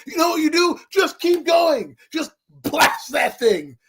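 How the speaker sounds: exasperated fan yelling advice; exasperated rant. Real, not acted. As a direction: spell it out like it's obvious. Ranting advice at the kicker.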